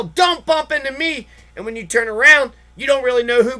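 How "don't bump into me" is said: mock yell. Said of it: "and then yell".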